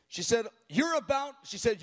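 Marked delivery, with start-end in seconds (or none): 0.7-1.4 much higher, fiery prophetic declaration; zealous prayer. Retold or imitated. Tiny elderly woman prophesying into the microphone with zeal. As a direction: proclaim it with fire. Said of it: "she had a voice".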